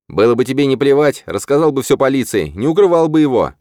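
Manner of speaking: high, loud furious yell; shouting in his face. A narrator's reading. Hero shouting into Rahim's face, high and loud. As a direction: scream it right into his face. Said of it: "прокричал я ему в лицо".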